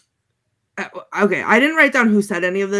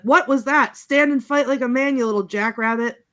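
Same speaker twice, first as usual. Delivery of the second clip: higher-pitched imitation of a fighter's challenge; raised voice, easing off on the insult; mock taunt; 4 semitones higher than usual. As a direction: goad an opponent in a hammed-up movie quote. Acted fight taunt from film.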